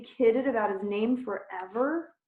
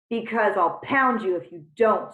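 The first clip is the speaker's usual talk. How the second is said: snarled; 6 dB louder than usual. Acted. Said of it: "snarled Tarantula".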